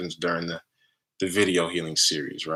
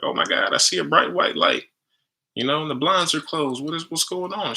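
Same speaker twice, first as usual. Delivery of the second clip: put-on excited girlfriend; 9 semitones higher than usual. Girlfriend freaking out during healing.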